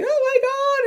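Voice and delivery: high, loud mock cry of shock; imitated tearful outburst. Friend hearing Santa described, imitated tearful outburst. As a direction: burst out as if overwhelmed, imitating a friend. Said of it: "she started crying".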